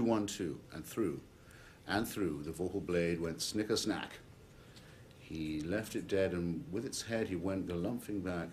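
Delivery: measured storytelling verse with dramatic pauses; poem recitation. Acted. Telling of the slain jabberwock in verse, measured recitation. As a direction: recite the tale, dropping away then striking out.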